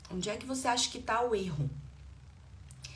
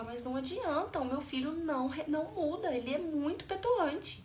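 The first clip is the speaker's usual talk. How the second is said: higher-pitched parental complaint; exasperated parent; 6 semitones higher than usual. Acted. Parent telling coach that gentleness fails with petulant child, exasperated.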